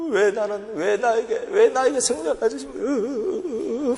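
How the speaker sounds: slow, tearful plea; mild sobbing question to God; crying prayer. Retold or imitated. Alone at the altar asking God why, slow crying plea. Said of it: "하면서 우는 거야".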